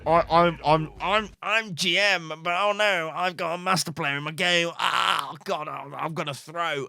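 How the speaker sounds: mock-anxious stammering player; antsy. Player finding a master in their game, mock antsy. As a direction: act out mild nerves, stumbling over the start. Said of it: "you kinda get a bit antsy".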